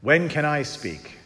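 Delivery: slow, patient question; a hint of a patient Lord; gentle God's voice. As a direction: ask slowly, waiting for a turn. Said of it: "And he said".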